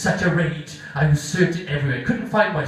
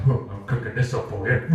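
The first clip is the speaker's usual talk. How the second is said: put-on Scottish accent; 3 semitones lower than usual. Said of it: "They're from Scotland".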